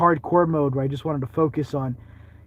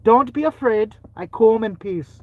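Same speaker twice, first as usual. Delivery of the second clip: put-on Irish Amish accent; 5 semitones higher, 4 dB louder than usual. Amish ghost hunter alone in a cemetery, mock Irish accent. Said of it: "my video with this Amish look".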